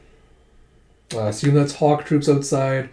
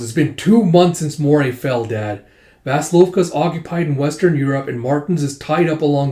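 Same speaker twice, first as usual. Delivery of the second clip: heated pleading; 4 dB louder than usual. Acted. Daughter presses father in argument.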